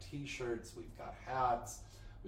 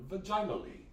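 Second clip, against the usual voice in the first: savoring the word; 8 semitones higher, 4 dB louder than usual. Retold or imitated. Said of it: "How trippingly it falls off your tongue".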